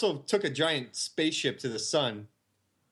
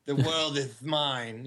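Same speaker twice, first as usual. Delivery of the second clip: slow, lightly lisped villain line; lisping burnt villain; much slower than usual. Acted. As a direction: drag it out like a half-burnt villain with a lisp. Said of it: "Might as well add a lisp".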